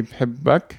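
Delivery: بحبك said as bhibbak, a doubled b and a final -ak; Arabic demo word. Shown as a demonstration. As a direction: say بحبك the way she says it to him. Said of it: "she would say".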